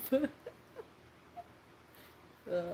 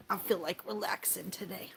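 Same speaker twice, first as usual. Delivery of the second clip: whisper; 2 semitones lower, 8 dB quieter than usual. Real, not acted. Whispered relaxing talk.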